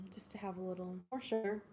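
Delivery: soft conspiratorial whisper. Real, not acted. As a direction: whisper it like a guilty secret. Confiding about sugary treats.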